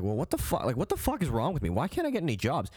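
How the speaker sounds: rising, exasperated self-questioning; acted exasperation at normal volume; frustrated. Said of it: "starting to get frustrated".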